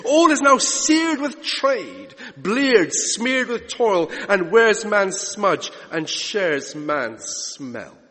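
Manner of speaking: slow declamation, each image weighted; poetry recitation. Acted. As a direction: savour each word of the verse. Recites Hopkins poem.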